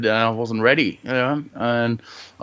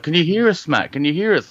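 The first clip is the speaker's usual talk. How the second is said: rescuers calling; 7 semitones higher than usual. Retold or imitated. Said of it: "They're like".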